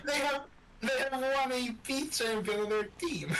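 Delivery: high-pitched talk through laughter; words breaking up with real laughter; laughing. Real, not acted. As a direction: tease a friend while cracking up. Laughs while teasing friend.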